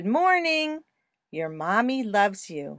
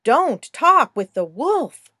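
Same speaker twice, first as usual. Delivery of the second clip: put-on firm, loud no-no to a storybook girl; loud warning; 6 dB louder than usual. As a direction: call out a warning to the girl in the book. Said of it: "Tell her".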